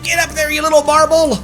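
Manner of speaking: usual speaking voice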